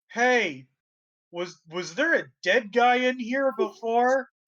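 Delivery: put-on high, yelled calling out. Game master voicing a character who turns up and calls out, yelling. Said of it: "she yells".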